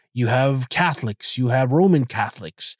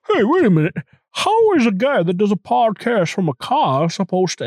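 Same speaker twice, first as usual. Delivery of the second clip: mock skeptic; 8 semitones higher than usual. Host voicing a doubting listener, high mock outrage. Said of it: "people are like".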